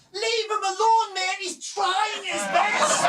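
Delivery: a stand-up-for-him shout; mock defender. Front-row defender shouting up.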